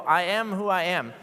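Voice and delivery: a dry, sarcastic "I am who I am". Shown as a demonstration. Modern reader hearing God's answer, mildly sarcastic. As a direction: throw "I am who I am" off with a hint of sarcasm. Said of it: "it almost sounds sort of sarcastic".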